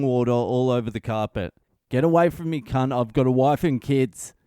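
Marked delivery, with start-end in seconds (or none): 1.9-4.3 a half-hearted panicked yell at the attacker; retold yell that fades out. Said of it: "That's what he yelled".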